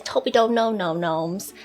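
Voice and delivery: Essex reset phrase; practising Essex vowels; Essex accent. Shown as a demonstration. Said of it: "using the phrase".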